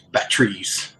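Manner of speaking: "batteries" clipped to "bat-trees"; Canadian pronunciation. Retold or imitated. Mimicking Bob's reply, "batteries" as "bat-trees". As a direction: slowly say "batteries" with no middle syllable. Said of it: "he's from Canada, you have batteries".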